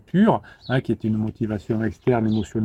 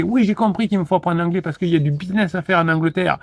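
higher, singsong mock know-it-all; naive eagerness; 6 semitones higher than usual. Would-be English learner convinced understanding is enough, mock eagerness. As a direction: parrot the lesson with hollow confidence. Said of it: "je vous convainquiez qu'il vous faut parler anglais".

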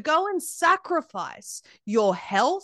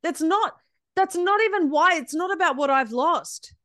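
real exasperation, pitch raised; infuriated; 4 semitones higher than usual. Real, not acted. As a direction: protest heatedly, voice climbing. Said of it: "it infuriates me".

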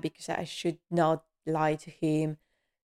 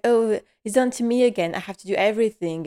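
mild mock angry complaint; 3 semitones higher, 4 dB louder, faster than usual. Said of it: "she's a bit angry. She's like".

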